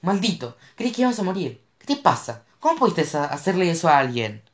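high, loud furious scolding. A narrator's reading. Mo berates Cash for faking the brakes. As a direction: lay into him.

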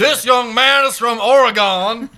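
hammed-up gangster drawl; Al Pacino impression. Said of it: "I think Al Pacino".

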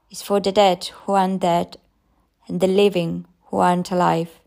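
a hint of an eerie old madwoman; old crazed woman. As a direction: murmur like a haunted old woman. Old mad woman speaking.

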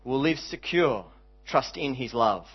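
measured line-by-line recitation, pausing after each phrase; spoken hymn, each line settling gently downward; hymn verse recital. Real, not acted. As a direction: recite it like a poem, unhurried and sincere.

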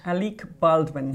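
slow mock-Spanish pronunciation of the name; mock Spanish accent. Mocking the actor's Spanish wife, drawn-out fake Spanish accent. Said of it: "She's a Spanish yoga teacher in New York".

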